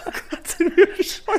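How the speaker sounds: hoch und lachend herausgeprustet. Real, not acted. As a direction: noch mitten im Lachanfall. Kichert über den verpatzten Start. (kichernd über den eigenen Patzer)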